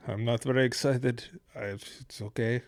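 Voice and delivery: quiet, dry deadpan answer; a hint of an unimpressed player shrugging. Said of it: "A very dry sense of humor".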